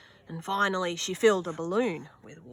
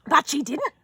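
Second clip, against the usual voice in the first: dramatic relief; 7 semitones higher, 8 dB louder than usual. A narrator's reading. Relief after near drop.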